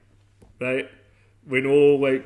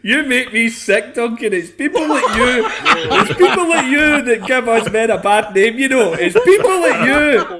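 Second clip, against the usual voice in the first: high, loud laughing mock rant; hammed-up disgust, laughing through it; jokingly scolding a friend, loud and high; mock outrage; 9 semitones higher, 10 dB louder than usual.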